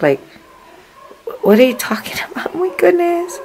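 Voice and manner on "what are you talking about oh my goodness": loud, incredulous retort rising high; shocked. Retold or imitated. Woman told at work her dress looks wrong, shocked. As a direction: act out loud disbelief. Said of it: "I was just so in shock".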